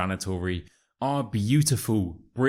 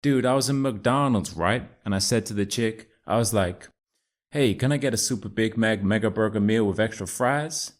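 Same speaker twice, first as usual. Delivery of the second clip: put-on American accent. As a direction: play Chad, an American bro. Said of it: "it's Chad".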